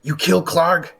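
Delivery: high, loud goblin asking in disbelief. Acted. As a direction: squeak it out like a goblin. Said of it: "the goblin says".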